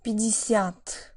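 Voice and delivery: Пятьдесят with the first two vowels reduced toward E, stress on the last syllable; vowel reduction demo. Shown as a demonstration. Teacher demonstrating vowel reduction in Пятьдесят slowly. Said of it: "listen to a few examples of this".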